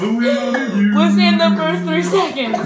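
laughing through the announcement; cracking up, slow and giggly. Real, not acted. Announcing loss while laughing.

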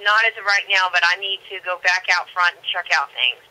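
thin phone-line voice; over the phone. Real, not acted. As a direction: heard through the receiver. Employee on the phone.

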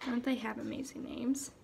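soft unvoiced aside; hushed admiring aside; whispered aside. Real, not acted. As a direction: whisper it to the class as a secret. Teacher's aside while writing names.

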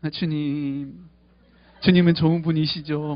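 very slow, syrupy mock-pious; fake pious prayer. Shown as a demonstration. Pastor mocking insincere prayer to the congregation, syrupy and very slow. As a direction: sweeten it falsely, drawn out. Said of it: "이런 가식적으로 하는 기도 필요 없습니다".

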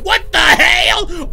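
high, loud drawn-out disbelief; shocked yell. Real, not acted. Player shocked by cold-blooded game, shocked yell. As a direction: stretch it out in a shout.

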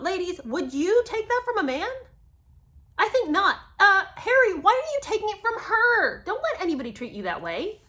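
high, loud appeal; rallying call. Real, not acted. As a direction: call out to the ladies. Calling out to viewers and Harry.

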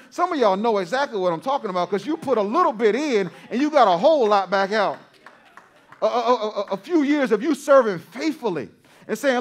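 fervent, driving sermon delivery; preaching. Real, not acted. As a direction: preach it to the congregation with punched key words. Preaching to congregation at full flow.

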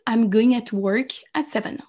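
slow, deliberate English sentence; careful classroom English; slow example. Shown as a demonstration. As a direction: lay the example out word by word. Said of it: "Si vous dites".

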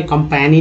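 कंपैनी with open 'ae', kum-pae-nee; wrong 'ae' vowel. Shown as a demonstration. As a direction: open the middle of कंपैनी like 'pan'. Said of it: "नहीं बोल रहे".

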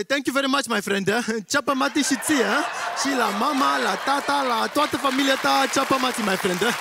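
put-on high, singsong African-accented thanks; cheerful African. African happily returning a curse as thanks, high African accent. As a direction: play a gleefully oblivious African, pitched well up. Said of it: "You tell an African chapamati, he will say".

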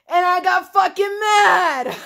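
loud burst on fucking mad; angry shout. Real, not acted. Telling viewers why she got angry, a loud shout. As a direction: yell it out, still mad. Recalling anger, shout heard.

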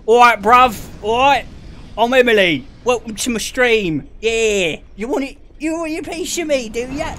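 loud, cheeky mock British accent. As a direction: do a quick, hammed-up British impression. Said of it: "Oh, she's British".

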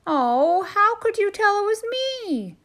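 high, fast and baffled; surprised turkey voice. Acted. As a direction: blurt it out.

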